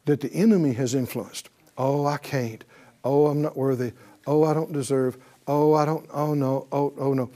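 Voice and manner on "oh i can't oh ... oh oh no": low, soft whimpering mock humility; mock timid believer. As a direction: shrink back in false humility. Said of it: "religious junk".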